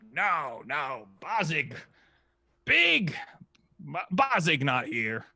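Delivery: lightly voiced excited kobold; kobold answer. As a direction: kobold insisting, jumping up on Big.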